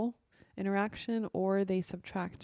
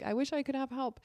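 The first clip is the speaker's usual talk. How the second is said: overwhelmed plea; 6 semitones higher than usual. Retold or imitated.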